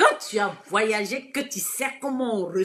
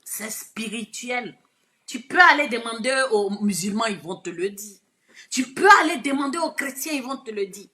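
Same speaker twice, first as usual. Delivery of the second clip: normal talking voice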